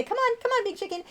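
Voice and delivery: high, light coaxing of a pet; high-pitched bird talk. Retold or imitated. Owner showing how she calls her bird, high-pitched. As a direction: coax the bird in a squeaky-high voice. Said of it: "the higher pitched my voice goes".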